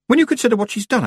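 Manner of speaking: high and insistent, groping for the word; high-pitched, puzzled explaining; Miss Tick aloud. Acted.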